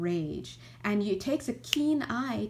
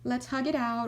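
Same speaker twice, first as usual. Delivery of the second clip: bright, much higher coaxing big-sibling voice; cheery big brother; 4 semitones higher, faster than usual. Retold or imitated. Big sibling comforting a fallen child, high cheery coaxing. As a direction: scoop up the crying kid and pull them into a hug. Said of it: "and they're like".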